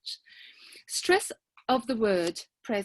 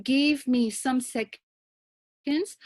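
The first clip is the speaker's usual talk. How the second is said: quoted wrong phrasing; much slower than usual. Shown as a demonstration. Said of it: "I would suggest that you rather say".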